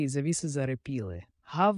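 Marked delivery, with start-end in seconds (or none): 1.4-1.8 higher, sharp exclaimed woof; narrator's raised bark; barked shout. A narrator's reading. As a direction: call out one bark on a higher pitch. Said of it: "вигукнули двері втретє".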